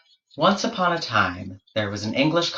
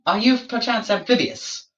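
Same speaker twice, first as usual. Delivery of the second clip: higher, fussy scientist voice; pompous explorer questioning; 3 semitones higher, faster than usual. Acted. George interrogating the platypus about its kind, fussy higher voice. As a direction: probe like a fussy naturalist, pitched up.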